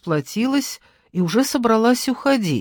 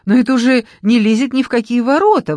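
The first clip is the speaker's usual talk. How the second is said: higher, louder outrage; indignant; 6 semitones higher, 4 dB louder than usual. A narrator's reading. Nadezhda scolding the salon employee, indignant. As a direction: let her indignation rise. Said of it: "возмутилась Надежда".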